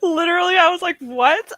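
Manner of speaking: loud, high, laugh-filled exclamation; laughing disbelief. Real, not acted. Streamer retells her jump scare to viewers, laughing disbelief. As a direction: blurt it out high through laughter.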